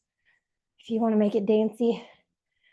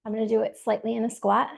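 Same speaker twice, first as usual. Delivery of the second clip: breathless while exercising; winded, talking between breaths; faster than usual. Real, not acted. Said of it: "Catch my breath".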